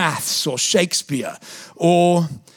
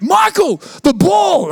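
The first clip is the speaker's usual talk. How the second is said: shouted warning; 12 semitones higher, 4 dB louder, slower than usual. Retold or imitated. Teammates yelling warning.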